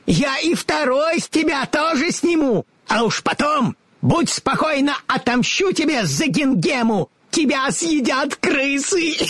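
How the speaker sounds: high, gloating witch voice; menacing witch. A narrator's reading. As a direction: threaten her like a wicked witch. Witch threatens the girl.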